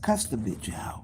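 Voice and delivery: hushed whispered instruction; conspiratorial whisper. Retold or imitated. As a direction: whisper it like a sly plot. Conspiratorial request quoted.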